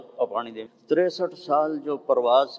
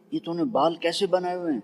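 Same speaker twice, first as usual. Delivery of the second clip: quick, higher, amazed question; surprised question; 6 semitones higher, faster than usual. Retold or imitated. Preacher asks the boy about his haircut, quick and surprised. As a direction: ask it fast in disbelief.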